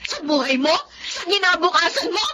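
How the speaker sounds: scolding. Acted. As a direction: berate the daughter. Mother scolding rebellious daughter.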